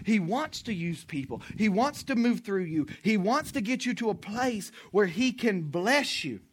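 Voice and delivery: usual speaking voice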